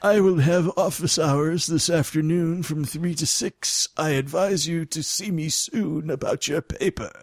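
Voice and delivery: a light, lofty college professor announcing office hours; stuffy professor voice. Pretend. Professor telling a student to come see him, lightly voiced. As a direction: play a lecturer addressing a student, mildly. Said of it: "he's like a college professor".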